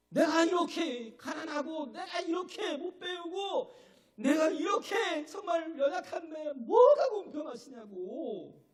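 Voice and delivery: slow, high, tearful outcry breaking into a shout; anguished protest. Acted. Poet protesting to God, a slow high tearful shout. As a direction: wail it at God, slow and high, close to tears.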